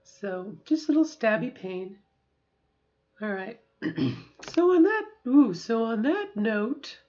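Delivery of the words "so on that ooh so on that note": slowed down. Real, not acted. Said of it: "and also speed".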